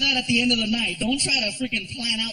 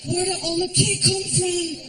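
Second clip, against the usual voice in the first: put-on much higher, sleepy child's voice; little kid voice; 8 semitones higher than usual. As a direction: play a small boy just woken up.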